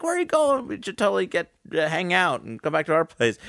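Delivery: high, eager mock invitation; high excited invite to the girls. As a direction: pitch it up like an overeager party guy. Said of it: "and I was like".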